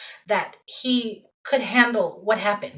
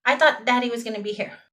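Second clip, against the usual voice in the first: imitating a child in a higher voice; little boy; 7 semitones higher than usual. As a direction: pitch it up like a small kid saying he's fine. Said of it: "He goes".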